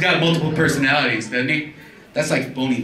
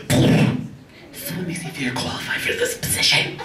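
prim interviewer voice, soft; mock the HR lady's formal question; human resource lady; 4 semitones higher, 3 dB quieter than usual. A hint of the HR lady quizzing the job candidate. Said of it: "the human resource lady who's like".

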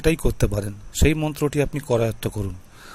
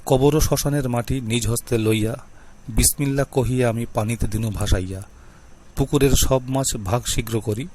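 mantra recitation. Shown as a demonstration. Reading the pond mantra aloud to viewers, chanted incantation. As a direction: recite the spell clearly, like a tantric invoking. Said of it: "পড়ে শোনাই".

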